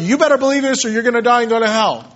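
rattled-off mock ultimatum; hectoring threat. Pushy believer just telling someone what to believe, hurried mock threat. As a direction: rush it out as a blunt warning. Mimics a bullying evangelist's threat.

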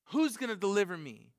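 anguished cry of a wretched man; Paul's lament. Retold or imitated. Paul crying out to be delivered from sin. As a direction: plead for rescue, voice straining up. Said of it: "he says".

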